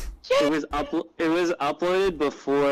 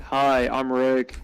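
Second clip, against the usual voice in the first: slightly deeper Rick; 3 semitones lower, much slower than usual. Shown as a demonstration. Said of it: "go slightly deeper for Rick".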